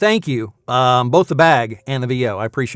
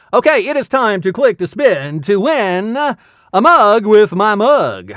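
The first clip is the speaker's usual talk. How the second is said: slow, raised, swooping contest title; game-show announcer; 9 semitones higher, 6 dB louder, slower than usual. Pretend. Host reintroduces the mug giveaway to viewers, announcer style. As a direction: sell the segment with stretched words.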